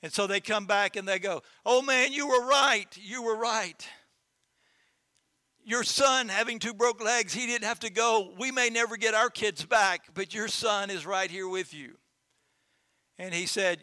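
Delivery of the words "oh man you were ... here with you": high, loud, grieving praise; awed neighbors. Acted. Neighbors back from the war admitting the farmer was right, high and loud.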